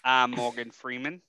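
slow, measured celebrity impression; Morgan Freeman. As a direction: attempt a solemn narrator, slow and slightly low. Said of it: "hear an impression of Morgan Freeman".

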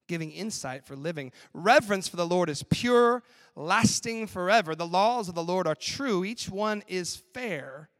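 slow, weighty reading of a psalm; scripture reading. Acted. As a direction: read the verses with reverence. Reads Psalm aloud.

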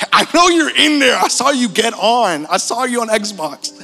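high, loud mock holler; calling through a door. Friend outside the dorm door to his hiding buddy, insistent calling out.

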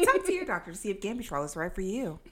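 pharma commercial read through a laugh; laughing mock ad tagline; drug ad voice. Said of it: "on the commercial for Gambutrol".

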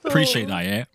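lads' banter in a fake Liverpool accent; cheeky roadman Scouser, lightly put on; put-on Scouse accent. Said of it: "props to you, Luke. That was good".

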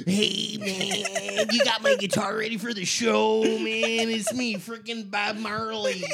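a lightly voiced stoned Jamaican reggae-singer accent; laid-back stoner drawl with a Jamaican hint. Imagining a famous reggae singer backstage, a hint of a Jamaican accent. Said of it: "You gotta think he was like".

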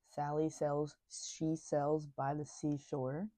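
retainer in mouth; slow, careful around a retainer; talking with a retainer. Real, not acted. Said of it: "with my retainer in".

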